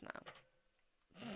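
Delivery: slow, yawning through the words. Real, not acted. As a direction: say it mid-yawn, sleepily. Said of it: "So I can't stop yawning".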